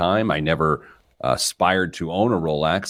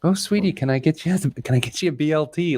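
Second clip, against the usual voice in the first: put-on light Southern Belle accent, higher, for a sweet grandma offering food; 8 semitones higher than usual. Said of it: "That was your Southern Belle accent?".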